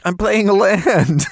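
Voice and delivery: high, drawn-out yell back; stretched-out high mock shout. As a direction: holler it slowly in joking exasperation. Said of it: "were yelling at each other".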